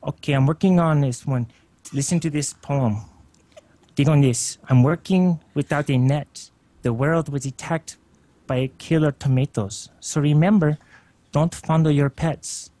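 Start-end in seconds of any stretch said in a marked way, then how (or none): 1.9-12.7 slow poetry reading in an attempted Puerto Rican accent. Shown as a demonstration. Caller performs a poem on request, attempted Puerto Rican accent. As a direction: recite deliberately with a rough Puerto Rican accent, pausing between phrases. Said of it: "Can you do a poem in that Puerto Rican accent?".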